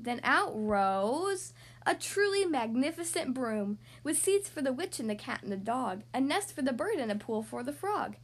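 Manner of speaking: put-on lilting children's storybook reading; story narration. A narrator's reading. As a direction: read a rhyming tale to young children. Reads a picture book aloud.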